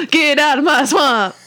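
a laughing, hammed-up Scottish accent, slow; teasing Scottish Shrek line through a laugh; mock Shrek Scottish accent. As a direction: mimic a friend's bad Scottish Shrek while laughing. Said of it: "all he does is go".

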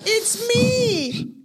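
high squealing shout; squealed shout. Pretend.

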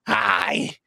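raspy phone sex operator's hi; a husky, worn-out hello; smoker's rasp. Retold or imitated. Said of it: "it was a woman sound like this".

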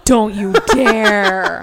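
slow and loud, gasping through a laugh; outraged but cracking up; laughing mock outrage. Real, not acted. Mock outrage at the phone brand.

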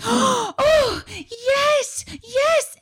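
very high-pitched gushing coo; mimicking a woman fussing over her darling; nurturing coo. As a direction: coo adoringly in a tiny high voice.

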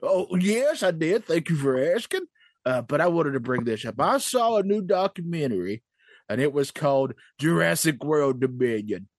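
lightly voiced old miner; a hint of a crusty prospector. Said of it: "Prospector, what's going on, buddy".

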